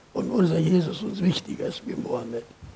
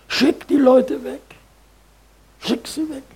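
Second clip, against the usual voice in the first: higher, louder disciples' voice; mock urgent demand; 5 semitones higher, 7 dB louder than usual. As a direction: toss it off as an urgent order.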